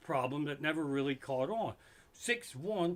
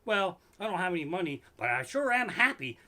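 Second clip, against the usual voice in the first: mock cheerful broke guy; 4 semitones higher, 5 dB louder than usual.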